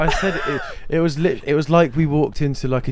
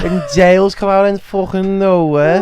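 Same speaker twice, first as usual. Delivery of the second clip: indignant; 7 semitones higher, 8 dB louder than usual. Retold or imitated. Indignant retold outburst.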